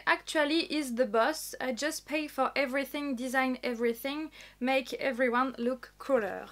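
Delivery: English read with a French accent. Real, not acted. French vlogger reading the box's slogan, French-accented English. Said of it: "avec mon super accent".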